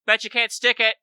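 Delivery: high, loud mock shout; shouted taunt. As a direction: call it out as a taunt across the water. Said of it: "basically shouts back to the coast".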